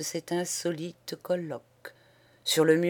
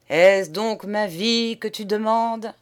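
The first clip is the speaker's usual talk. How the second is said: questioning; 4 semitones higher, 7 dB louder than usual. Acted. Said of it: "interrogea le peintre".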